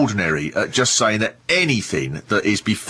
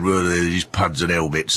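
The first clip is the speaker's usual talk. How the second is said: moany Yorkshire grumble; 5 semitones lower than usual. Retold or imitated. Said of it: "moaning about the cricketers going".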